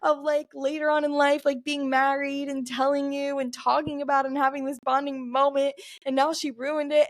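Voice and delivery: high-pitched mock crying voice, no real sobs; imitated hysterical crying. Upset daughter explaining to her mom, imitated hysterical crying. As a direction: lightly imitate your own tearful, high-pitched wail. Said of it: "I was, like, hysterically crying".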